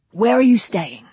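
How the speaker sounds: eager film director with a laugh; pushy producer charm; brash director. Acted. Brady asks.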